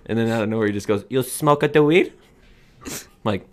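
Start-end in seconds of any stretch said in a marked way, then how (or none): 1.1-2.1 high, loud, slow mock Asian accent. Party guest asking out of nowhere, imitated Asian accent. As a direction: imitate an Asian accent, drawn out and rising to a question. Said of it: "doing Asian accents".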